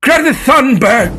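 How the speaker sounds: shouted high and slow; excited shout. Acted. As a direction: yell the name out like a reveal. Blurts name as announcement.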